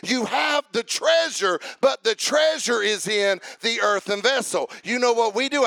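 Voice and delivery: rising preacher's cadence, punching each line; Sunday-night sermon at full fire; full-force preaching. Real, not acted. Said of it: "but I feel preachy".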